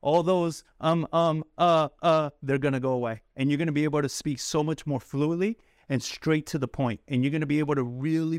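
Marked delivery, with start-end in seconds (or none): 0.8-2.3 stumbling fillers; stuttering. Shown as a demonstration. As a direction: stammer on the fillers. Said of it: "all that stuttering".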